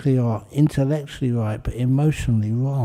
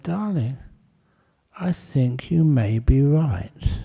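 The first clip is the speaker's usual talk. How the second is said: gentle concession; slower than usual. Acted. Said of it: "he squeezed her hand gently".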